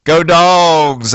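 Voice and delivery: imitating his hopeful Friday cheer; Friday's eager rah-rah; fan cheer. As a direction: cheer the team on with pep. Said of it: "I was saying on Friday".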